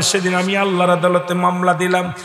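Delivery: ordinary talk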